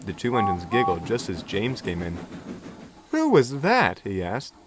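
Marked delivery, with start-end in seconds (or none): 3.1-4.0 haughty engine asking. A narrator's reading. James voiced.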